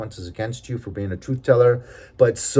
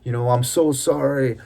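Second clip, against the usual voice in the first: retold pleading sob; 4 semitones higher than usual. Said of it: "crying and dropping to his knees and crying".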